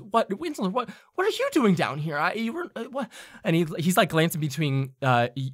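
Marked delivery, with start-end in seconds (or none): 0.0-3.1 a higher, flustered stammer; startled Kurt. Acted. Kurt sputters at his old friend Winslow. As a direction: caught off guard and sputtering. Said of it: "and goes".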